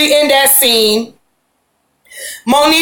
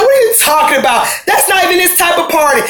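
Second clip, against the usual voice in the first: higher, quick indignant shout; mock angry retort; 4 semitones higher, faster than usual. Tierra snapping back at her boyfriend, indignant mock shout. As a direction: fire it back at him, offended.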